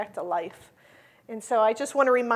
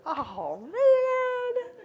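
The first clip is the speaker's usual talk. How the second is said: choked up; 5 semitones higher, 5 dB louder, much slower than usual. Retold or imitated. Moved by a student's words.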